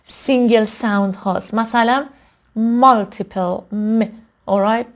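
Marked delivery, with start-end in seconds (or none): 2.6-4.0 مالتیپل said slowly, then an isolated م; مالتیپل, then just the sound م; single-sound demo. Shown as a demonstration. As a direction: isolate the "m" after saying مالتیپل. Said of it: "تلفظ خود".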